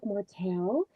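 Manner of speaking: soft mom voice. Retold or imitated. Imitating Melody coaxing her baby softly. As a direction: coax a little one gently, a hint of mother. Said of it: "talking to him that way".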